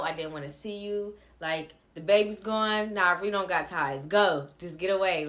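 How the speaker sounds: retold angry dismissal. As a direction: push him away with a sharp, loud go. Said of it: "I told him to get the fuck out".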